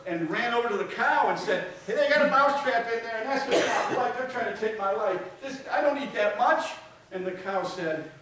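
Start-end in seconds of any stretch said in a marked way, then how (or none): 1.9-6.7 high, loud, indignant mouse voice; desperate mouse. Acted. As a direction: plead your case to the cow. Mouse pleads with cow.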